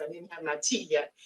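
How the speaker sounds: slightly hoarse, raspy throat. Real, not acted. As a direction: speak through a raspy voice. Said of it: "I apologize for my raspy voice".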